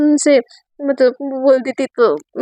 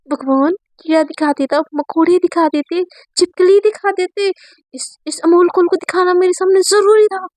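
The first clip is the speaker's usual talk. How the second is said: mock disgust; 5 semitones higher than usual. Girl disgusted at seeing boy.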